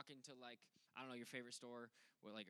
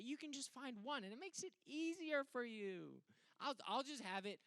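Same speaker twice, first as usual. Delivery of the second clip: put-on high, coaxing little-kid voice; scheming little brother; 7 semitones higher, 6 dB louder than usual. Little Logan coaxes big brother Connor, high and sweet. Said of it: "and I say".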